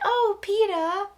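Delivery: high, slow lovesick sigh; mock swooning. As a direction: melt over his name like a smitten girl. Katniss suddenly swooning over Peeta.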